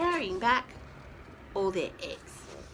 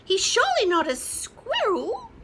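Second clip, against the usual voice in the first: higher, louder hen voice; clucking small chicken; 10 semitones higher, 4 dB louder than usual. Acted. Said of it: "clucked the small chicken".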